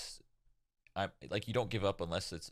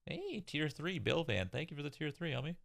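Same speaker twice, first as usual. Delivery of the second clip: streamer shoutout; 9 semitones higher, 3 dB quieter than usual. Real, not acted. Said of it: "thanking a subscriber on stream".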